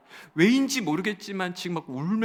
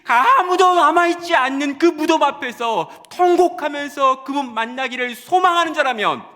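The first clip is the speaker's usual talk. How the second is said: high, loud preaching cry; preacher crying out to the congregation; fervent preaching; 11 semitones higher, 13 dB louder than usual. Acted. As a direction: preach it with full fervour. Preaching at full force.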